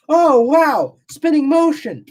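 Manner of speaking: mock the clueless Greeks in a silly high voice; mocking ancient Greeks. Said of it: "they looked at that and they went".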